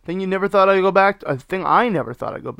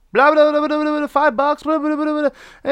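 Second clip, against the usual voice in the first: high babbling mockery; mocking kid babble; 11 semitones higher, 4 dB louder than usual. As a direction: blah blah like a bratty kid. Mimicking kid ignoring him.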